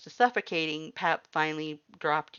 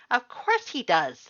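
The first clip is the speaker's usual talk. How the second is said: high, loud, eager skeleton voice; loud cheerful Papyrus; 10 semitones higher, 8 dB louder, slower than usual. A narrator's reading. Papyrus welcomes the human to stay, loud high cheerful voice. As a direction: boom it out like a proud, cheerful skeleton.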